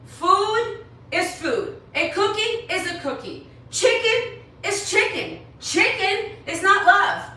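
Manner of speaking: pushing the words out on the edge of crying; close to tears. Real, not acted. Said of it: "I'm gonna start crying".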